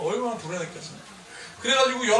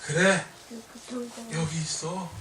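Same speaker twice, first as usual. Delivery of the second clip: softer, tender reassurance; comforting child; 3 semitones lower, 4 dB quieter than usual. Retold or imitated. Father retelling comforting his frightened son, softly. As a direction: soothe a frightened toddler gently.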